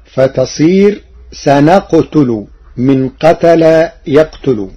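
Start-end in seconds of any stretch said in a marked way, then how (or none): 1.3-2.4 سنقتل as sanaqtulu, no doubled taa; light taa. Shown as a demonstration. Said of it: "بتخفيفها". (سنقتل بالتخفيف)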